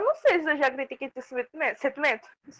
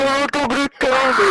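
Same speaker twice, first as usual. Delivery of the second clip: loud; 5 dB louder, slower than usual. Real, not acted. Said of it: "Não grita".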